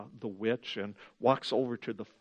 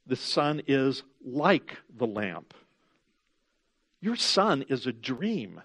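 evil witch; 3 semitones higher, 5 dB louder than usual. Acted. Witch's persuasive speech.

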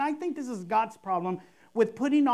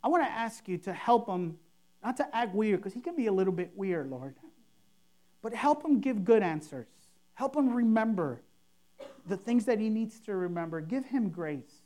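softer, plain heartfelt prayer; simple sincere prayer; 2 semitones lower, 4 dB quieter than usual. Shown as a demonstration. Pastor demoing a sincere prayer for a friend's interview. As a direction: pray it simply, like you mean it. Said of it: "should go something like".

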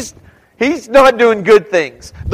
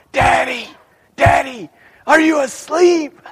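put-on small child calling; 6 semitones higher than usual. Child waking parent at night.

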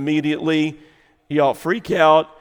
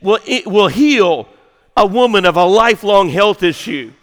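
raised, loud preacher's delivery; forceful preaching; 5 semitones higher, 6 dB louder than usual. Real, not acted. Preacher telling church what Jesus will do, forceful preaching. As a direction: preach it out, pitched up and driving.

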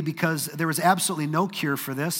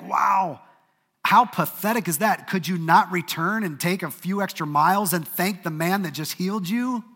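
scornful outburst; 3 semitones higher, 4 dB louder than usual. Retold or imitated. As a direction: scoff at the ungrateful nine. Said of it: "we read this story and we think".

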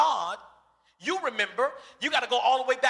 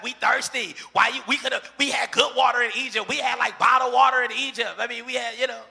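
complaining crowd; 5 dB louder than usual. Retold or imitated. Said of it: "they're like".

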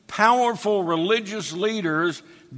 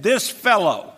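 a touch of scorn; 3 semitones higher, 4 dB louder than usual. Retold or imitated. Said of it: "underline that little phrase".

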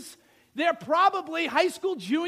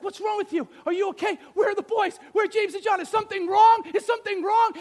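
alarmed rising calls, louder and higher; a frantic wife demanding where her boys are; worried wife; 7 semitones higher, 8 dB louder, faster than usual. Pretend. Wife frantically asking husband about sons, loud and high. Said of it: "she's like".

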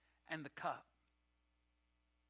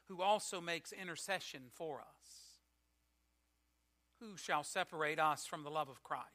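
scripture reading. Acted. Formal scripture reading aloud.

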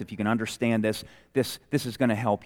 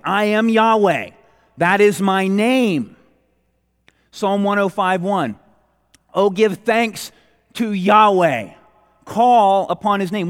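scripture read out higher and louder; forceful preaching; 7 semitones higher, 7 dB louder than usual. Acted. Preacher booming scripture to his congregation, forceful preaching. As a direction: proclaim each word like a summons.

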